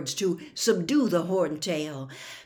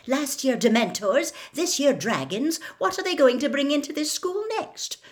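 indignant scolding, rising higher; exasperated, raised-pitch rant; furious; 7 semitones higher, 4 dB louder than usual. A narrator's reading. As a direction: scold crossly, building to an outraged question. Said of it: "talking furiously all the while".

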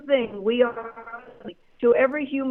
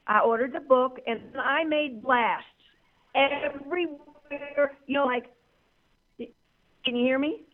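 signal cutting out on a call-in line; words dropping out over a bad phone line; radio breaking up; 3 dB quieter than usual. Real, not acted. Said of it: "You keep breaking up".

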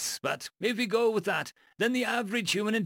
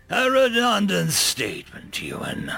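booming god voice; 4 semitones higher than usual. Acted. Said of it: "The God King's voice shook the mountains".

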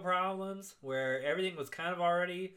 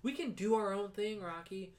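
high, half-laughing mock plea; a worried wife begging him to quit, pitched up; pleading Adrian; 7 semitones higher than usual. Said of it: "She's like".

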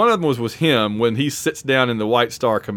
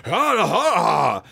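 slow, overblown Shatner delivery; lightly imitated theatrical Shatner; hammy Shatner takes; 3 semitones higher, much slower than usual. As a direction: ham it up like early-take Shatner. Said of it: "Shatner's first five takes would be like".

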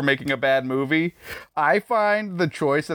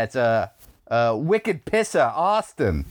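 mock Boston accent. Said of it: "Can you say it in the accent".

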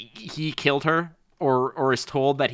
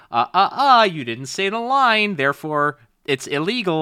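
smug rules stickler; 6 semitones higher than usual. Retold or imitated. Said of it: "you with your Smucker's face would".

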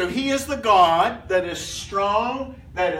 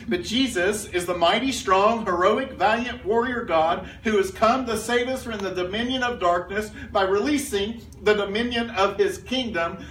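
all in one breath. Shown as a demonstration. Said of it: "put all these words in a big long run-on sentence and read it to you".

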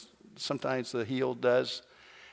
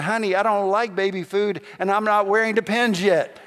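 mock protest; 4 semitones higher, 5 dB louder than usual. Husband protests baby food purchase.

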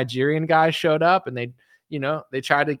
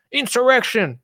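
mock outrage; 10 semitones higher than usual. Mimicking outraged liberals.

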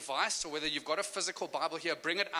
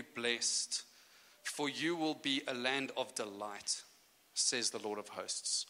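scripture reading. Acted. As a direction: read it like holy scripture. Reads scripture aloud.

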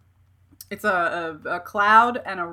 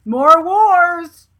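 loud, high drawn-out cheer; mock war cheer; 8 semitones higher, 10 dB louder than usual. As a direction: cry it out like a rallying call. Mock cheer at warhammer news.

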